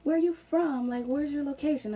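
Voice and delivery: mock a customer asking where you're from; curious caller. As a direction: imitate a nosy caller, high and loud. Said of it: "they can also kind of hear in there".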